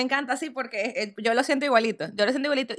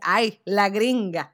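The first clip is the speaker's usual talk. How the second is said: slow, stretched mock scorn on "gringa"; drawn-out teasing; 2 semitones lower, much slower than usual. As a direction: draw out "Ay, la gringa" like a friend teasing. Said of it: "entonces me dice".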